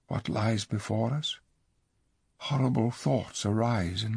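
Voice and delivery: soft, hushed hopeless words; despairing. Acted. King bows head in despair.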